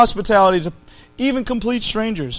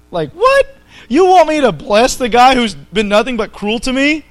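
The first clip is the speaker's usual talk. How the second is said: mock incredulous; 4 semitones higher, 4 dB louder than usual. Preacher voicing his own outrage at the verse, incredulous. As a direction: pitch jumps high on what.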